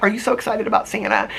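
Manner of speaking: put-on high, gushing child-directed question; high sweet voice for a child; talking to a child. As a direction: coo the question to a little girl. Asking the little girl about Santa.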